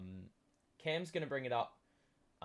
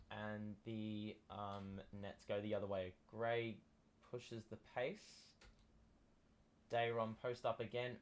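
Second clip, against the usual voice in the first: sports commentary. Acted. Live game play-by-play.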